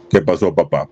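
a hint of a tough guy putting on a low voice; put-on macho voice. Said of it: "Manuel impostando todavía la voz". (voz de macho impostada, más grave)

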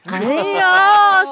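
exclaim, impressed by the expert; impressed exclamation. Real, not acted. Impressed by sound director. (惊叹地高声喊"哎呦")

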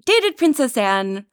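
slow emphatic repeat. Shown as a demonstration. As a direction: draw out "Dated Princess Anne" slowly.

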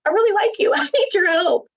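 high pleading with a laugh. Retold or imitated. Author begging her editor not to quit, high laughing plea. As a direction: beg her to stay, half laughing. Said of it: "And I was like".

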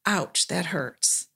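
quiet and slow, almost whispered; soft hurt. Shown as a demonstration. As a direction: let the hurt show gently. Modeling a response to shaming.

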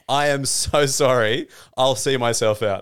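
slow, measured mock-sincere apology. Drunk patron apologising to the security guard, slow mock-sincere apology. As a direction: draw out each word of the apology.

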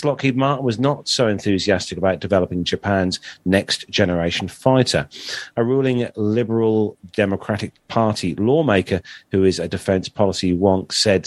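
measured read-aloud news story. Acted. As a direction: read the article out steadily, like a bulletin. Reads out a military news story.

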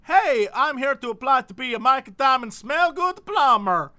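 hammed-up cheerful applicant; lightly voiced eager Jose. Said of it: "and he's like".

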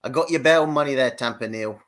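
put-on a stab at an American accent; attempted American accent. Brit asked to read in American, shaky-aim attempt at American accent. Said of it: "what accent's gonna be".

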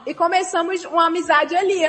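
ali with a gliding Carioca diphthong, like alii. Acted. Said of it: "a Leila captou o ditongo carioca".

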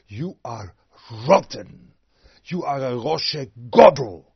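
harsh preacher's verdict, shouted; forceful rebuke. Shown as a demonstration. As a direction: thunder the accusation at them. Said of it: "you have to speak like this".

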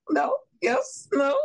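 mock indecision. Real, not acted. Playfully weighing yes or no.

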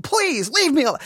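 high, exasperated re-enacted plea; irritated pleading. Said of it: "I'm getting irritated".

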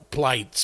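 whispered plights; spelled-out word. Shown as a demonstration. Host whispering plights while reading. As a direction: breathe the word plights without voice. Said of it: "P L A I T S".

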